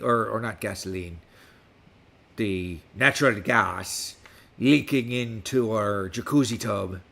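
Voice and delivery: put-on West Country pirate accent throughout. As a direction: talk like a pirate all episode. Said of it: "with me speaking like a pirate".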